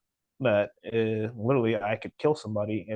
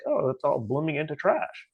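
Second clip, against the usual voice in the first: raised-pitch mocking lament; mock dismay; 5 semitones higher than usual. Mimicking people who lament society's decline, mock dismay. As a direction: imitate complainers, pitched up.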